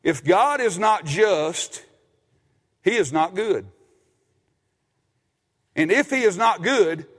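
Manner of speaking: slow, weighty quote with each line landing; slow emphatic quote. Shown as a demonstration. Pastor lays down a quote slowly for the congregation. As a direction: read it slowly so they can write it down. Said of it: "Write this comment, this quote down".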